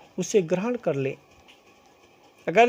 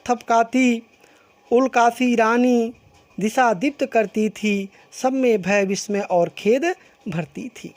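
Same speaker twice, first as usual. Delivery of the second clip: measured recital of verse; poem recitation. Acted. Teacher reciting Kaikeyi's verse to the class, measured recital. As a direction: read the couplet like a recitation.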